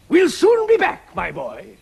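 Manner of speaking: high, loud, drawn-out farewell; calling back. Acted. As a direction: call it out slowly to someone left behind. Calling back as they leave.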